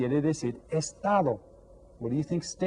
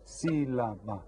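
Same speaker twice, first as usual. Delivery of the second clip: evenly separated syllables; syllables counted out; 2 semitones lower, 4 dB quieter, slower than usual. Shown as a demonstration. Teacher counts out the word, syllable by syllable. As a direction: say "Sílaba" syllable by syllable. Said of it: "You count it out".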